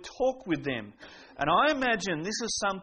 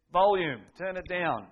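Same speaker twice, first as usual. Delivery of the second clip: higher, punchy retold telling-off; mock yell; 3 semitones higher, 4 dB louder than usual. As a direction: call out a mock order, loud at the start. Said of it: "I'd yell out".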